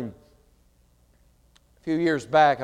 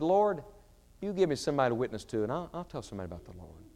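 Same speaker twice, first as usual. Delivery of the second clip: under-the-breath prayer; 5 dB quieter, faster than usual. Retold or imitated. Man bargaining with God to soothe his conscience, under his breath. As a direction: rattle off a prayer, trailing down under your breath. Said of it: "I prayed the prayer under my breath".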